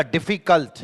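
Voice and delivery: "डिफिकल्ट" broken up into its syllables; teacher splitting "डिफिकल्ट" to show the breaks; pause between syllables. Shown as a demonstration. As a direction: stop inside "डिफिकल्ट", before कल्ट. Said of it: "जब बीच में मैं कहीं रुकूं".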